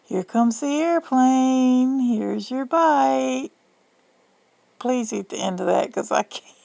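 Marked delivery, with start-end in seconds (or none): 0.0-2.0 airplane spoon game. Pretend. 2.0-3.5 put-on slow, higher baby-feeding voice; airplane spoon game.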